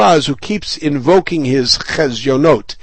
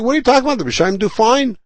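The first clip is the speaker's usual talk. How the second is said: incredulous retort; 8 semitones higher, much faster than usual. Retold or imitated. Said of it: "And he's saying".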